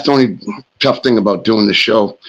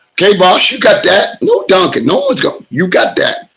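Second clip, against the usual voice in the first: mock compliance; 7 semitones higher than usual. Acted reply to the superintendent.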